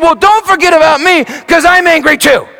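lightly voiced wife, high and loud; Susan piping up. Wife joining the confession of anger, piping up loud. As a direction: chime in eagerly, a hint of Susan. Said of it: "Susan piped up".

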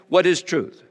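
scornful, dismissive question; a Roman governor's sneer at the idea of truth; disdain. Acted. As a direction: toss it off with contempt. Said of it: "I said that with some disdain".

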